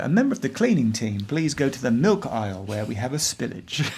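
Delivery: shop intercom announcer voice; store tannoy announcement. Acted. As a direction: read it like a supermarket tannoy. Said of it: "sound like cashier number four".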